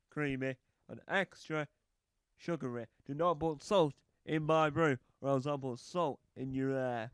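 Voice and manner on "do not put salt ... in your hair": mock threat. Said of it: "I don't sound threatening enough".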